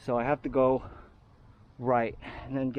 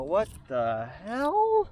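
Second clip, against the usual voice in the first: slow, higher, disbelieving viewer voice; incredulous viewer; 4 semitones higher, slower than usual. Retold or imitated. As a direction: play a baffled, scoffing viewer. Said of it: "they're gonna go".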